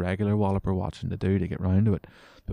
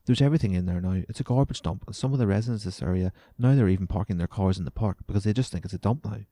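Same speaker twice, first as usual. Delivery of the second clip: mock outraged resident; 5 dB louder, faster than usual. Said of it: "She's concerned".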